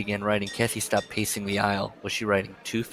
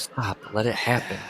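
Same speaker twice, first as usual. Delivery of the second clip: villainous voice. Retold or imitated. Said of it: "starts sounding like a villain".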